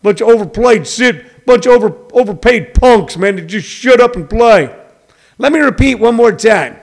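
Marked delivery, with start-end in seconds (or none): 0.0-4.7 mocking critics. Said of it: "guys who looked like me and sound like me go".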